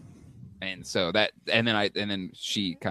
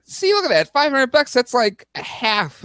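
excited; 13 semitones higher, 5 dB louder than usual. Real, not acted. Excited about the price.

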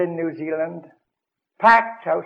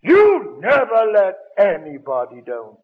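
mock furious rebuke; 2 semitones higher, 6 dB louder, slower than usual. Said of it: "I would have said".

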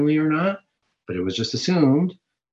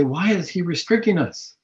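protesting sinner; 4 semitones higher than usual. Retold or imitated. People complaining that God restricts them, petulant. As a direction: whine against the rules. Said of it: "And we say".

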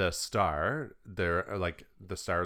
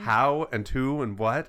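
slow, louder, rising bewildered questions; baffled questioning; 5 semitones higher, 5 dB louder, slower than usual. Retold or imitated. Family puzzling over the villa gift, slow bewildered questions. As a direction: demand answers in disbelief.

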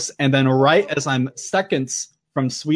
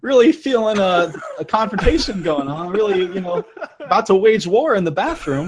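mock sheepish request; 4 semitones higher than usual. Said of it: "I'm not gonna be like".

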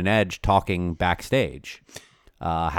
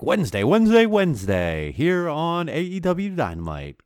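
booming hyped announcer voice; monster truck ad; 10 semitones higher than usual. Retold or imitated. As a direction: yell it like a truck rally ad. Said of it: "that guy who does the monster truck commercials".

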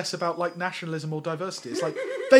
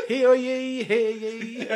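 town crier; 5 semitones higher, 4 dB louder, much slower than usual. Pretend. Joke about town crier.

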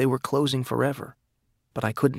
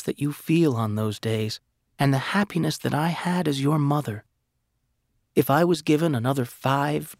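slightly raised, tender letter reading; mother's letter voice; 3 semitones higher than usual. Acted. Nathan reading his late mother's letter, tender and lightly higher. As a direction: read it as a loving mother.

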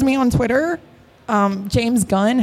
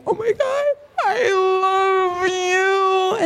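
high, drawn-out fangirl wail; mock sobbing; 8 semitones higher, much slower than usual. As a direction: wail it slowly as if sobbing at your idol. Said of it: "'Cause I'm sobbing".

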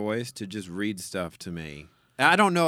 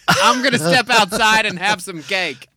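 laughing; 8 semitones higher, 8 dB louder than usual. Real, not acted. Laughs through the line.

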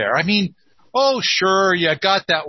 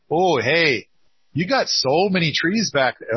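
put-on Minnesota accent. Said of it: "I'm trying to do my Minnesota accent".

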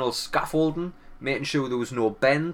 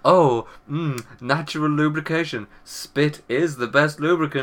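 porn nurse voice; slower than usual. Pretend. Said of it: "they're like".

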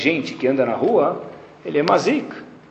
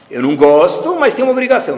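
reluctant obligation; 4 semitones higher, 4 dB louder than usual. Retold or imitated. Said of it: "O que eu tô falando pro meu filho sem falar".

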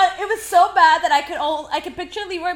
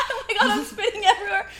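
laughing quote; 3 semitones higher, 4 dB quieter, faster than usual. Retold or imitated. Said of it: "I'm just like".

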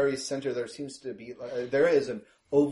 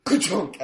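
imitated door clunk; 6 semitones higher, 6 dB louder than usual. Imitates van doors opening.

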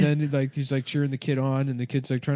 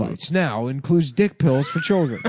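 mock commercial; 4 semitones higher than usual. Mock ad for kids' dick pills.

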